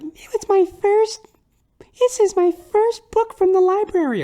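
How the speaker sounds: put-on a small girl showing off her first library book; high mock child voice; little girl voice. Little girl at story time.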